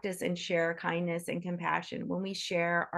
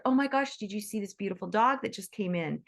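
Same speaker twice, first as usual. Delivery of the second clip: excited gushing. Retold or imitated. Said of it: "when we see somebody else".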